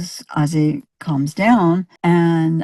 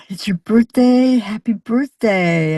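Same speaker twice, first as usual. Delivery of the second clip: lightly imitated sweet birthday wish, pitched higher; high, kindly greeting for a little child, slowing at the end; gentle and kind; 5 semitones higher, 3 dB louder than usual. A singer to a little boy on his birthday, gentle imitated sweetness. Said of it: "just so gentle and kind".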